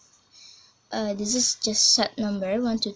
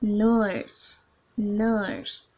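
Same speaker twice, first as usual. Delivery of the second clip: New Zealand "nurse" with a long vowel; demonstrated New Zealand "nurse"; New Zealand English. Shown as a demonstration. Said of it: "this is long vowel".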